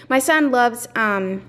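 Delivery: breathless, talking between breaths; winded from rushing. Real, not acted. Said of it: "sorry, I'm out of breath".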